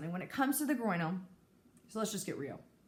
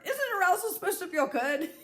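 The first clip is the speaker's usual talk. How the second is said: higher, louder, laughing through the question; 8 semitones higher, 4 dB louder than usual. Real, not acted. Joking to viewers about arousal, laughing question. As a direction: toss it out with a disbelieving laugh.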